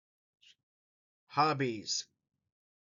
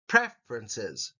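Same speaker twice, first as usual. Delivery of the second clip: Preferences low and slow, pre stressed; stress on first syllable; 6 semitones lower, slower than usual. Shown as a demonstration. Teacher modelling Preferences for students, stress on pre. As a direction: hit pre in Preferences slowly. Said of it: "The emphasis is on the first syllable".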